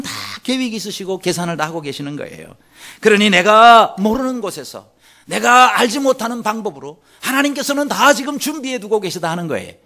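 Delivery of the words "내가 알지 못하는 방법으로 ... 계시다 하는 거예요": ordinary delivery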